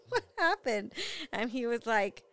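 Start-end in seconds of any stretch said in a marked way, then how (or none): 0.1-0.9 higher, laughing while asking; asking through a laugh; laughing question. Retold or imitated. Mother laughing as she asks her son.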